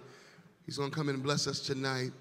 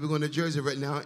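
1 louder repeat; 5 dB louder, faster than usual. Real, not acted. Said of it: "I said".

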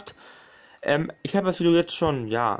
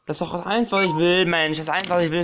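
raised, insistent complaint; exasperated protest; 3 semitones higher, 5 dB louder than usual. Real, not acted. Gamer begging to record undisturbed, exasperated. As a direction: insist on this one simple wish.

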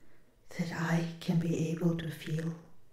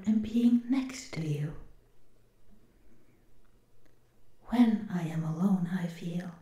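gentle robot whisper. Acted.

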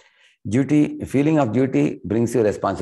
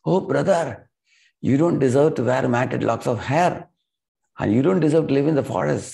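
higher-pitched mild lament; storyteller's raised-pitch outcry to a brother; retold anguished cry; 6 semitones higher than usual. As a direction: call out in mock distress, without sobbing. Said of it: "cried out loudly".

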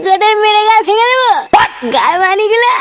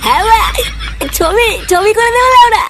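put-on drunk. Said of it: "তুই রাত্রিবেলায় মদ খেয়ে এসছিস?".

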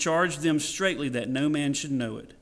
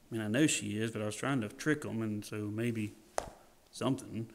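mock sheepish excuse; 4 semitones lower, 6 dB quieter than usual. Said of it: "Jesus didn't go".

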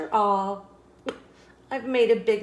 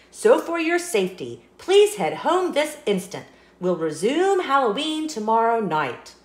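public announcement; 3 semitones higher than usual. Acted. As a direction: address the whole field like a warning broadcast. Seed making a fake announcement.

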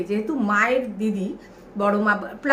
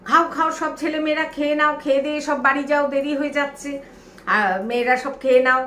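higher-pitched mock hurrying of the children; urging everyone to eat; 3 semitones higher than usual. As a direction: imitate girls briskly herding kids to eat. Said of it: "মেয়েরা বলতো খুব". (তাড়া দিয়ে খেতে বলার নকল)

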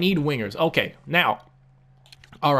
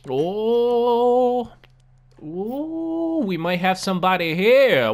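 high "Ooh" of discovery; pleased surprise; 8 semitones higher, 4 dB louder, much slower than usual. Real, not acted. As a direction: perk up at a lucky find. Finds a possible trade target.

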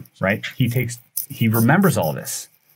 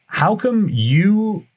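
slow, high, drawn-out mock demand; retold pointed challenge; 9 semitones higher, much slower than usual. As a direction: stretch each word high as an imitated accusation. Officers confront him, retold.

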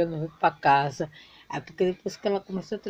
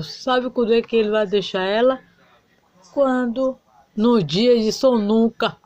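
zombando rindo; 2 semitones higher, 5 dB louder than usual. Acted. Amigas zombando da paixão dela.

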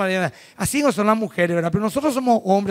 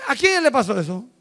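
stubborn objector; 6 semitones higher than usual. Retold or imitated. Preacher mocking a stubborn believer's excuses, laughing stammer. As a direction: dodge the point, stammering no, but. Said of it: "Acá dice".

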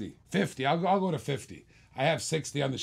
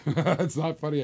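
slow, laughing through it. Real, not acted. Auctioneer teased by a laughing viewer, laughing. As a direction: say it while cracking up. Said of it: "Shantea Bird's laughing".

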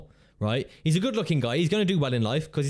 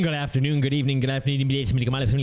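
garbled sing-song greeting that derails; botched intro; 3 dB louder than usual. Acted. Botching the channel intro into nonsense. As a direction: intro falling apart into mumbled repeats. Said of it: "I forgot my intro and just started to make random words".

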